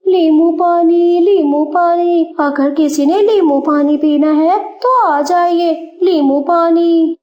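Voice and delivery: calling out lemonade for sale; street hawker call. Acted. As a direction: call out to passing customers. Crow hawking lemonade at stall.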